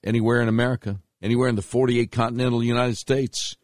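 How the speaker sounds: booming sponsor read; old radio announcer. Acted.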